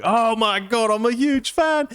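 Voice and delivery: very high-pitched fanboy squeal of words; starstruck gushing. Retold or imitated. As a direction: gush like an overwhelmed fan. Imitating starstruck friend meeting celebrity.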